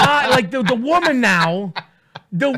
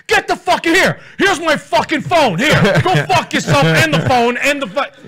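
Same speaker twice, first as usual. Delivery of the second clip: indignant innocent husband; 3 semitones higher than usual. Retold or imitated. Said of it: "accuses you of cheating and you're not".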